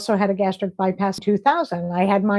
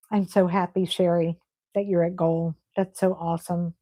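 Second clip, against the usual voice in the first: softer, lower, close to tears, ending in a whisper; choked up; 5 semitones lower, 4 dB quieter than usual. Real, not acted. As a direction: hold back tears as you say it. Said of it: "I'm gonna cry 'cause I get so excited".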